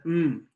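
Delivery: "M" hummed as "mmm"; isolated letter sound. Shown as a demonstration. Teacher giving the word's first sound, "M" as "mmm". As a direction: hold "M" as a humming sound, not the letter name. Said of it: "the M sound".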